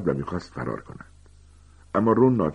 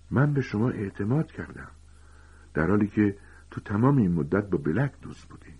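higher-pitched betrayed reproach; hurt accusation; 4 semitones higher than usual. Acted. Harry confronts the professor he trusted, hurt and accusing. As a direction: accuse someone you had trusted.

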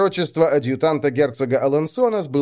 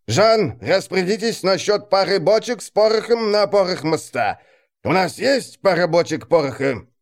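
lightly voiced, cool sardonic officer; 4 semitones higher than usual. Cool officer mocking a duke.

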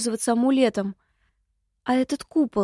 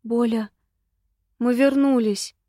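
calling out. A narrator's reading. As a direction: call "Боля!" across the house. Calling out on return.

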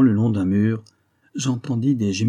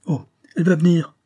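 high, louder dismissive reply; offhand reassurance; 8 semitones higher, 5 dB louder than usual. A narrator's reading. Count dismisses the canon's question about his wife, airily. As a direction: brush the question away, voice pitched up.

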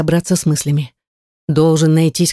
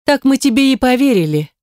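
nasal mocking; 8 semitones higher than usual. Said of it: "гнусаво запричитала Гортензия".

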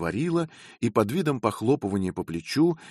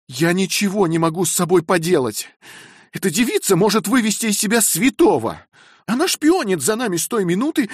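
higher, louder, sustained angry scolding; furious tirade; 11 semitones higher, 6 dB louder than usual. A narrator's reading. Wife dismissing the spying maid in a rage. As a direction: order her out, boiling over.

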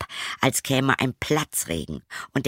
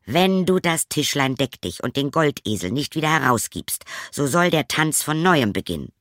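drohend; 5 semitones higher, 3 dB louder than usual. Acted. Drechsler droht dem Wirt.

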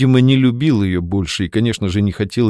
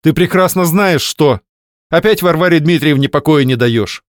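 angry accusation; 7 semitones higher, 5 dB louder than usual. Acted. Wife accusing her husband.

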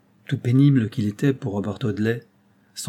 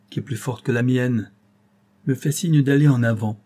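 put-on Robert, a young lawyer, vowing with growing intensity; lightly raised, earnest avenging voice; solemn resolve; 3 semitones higher, 5 dB louder than usual. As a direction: speak as a man sworn to pursue the truth. Robert's solemn vow speech.

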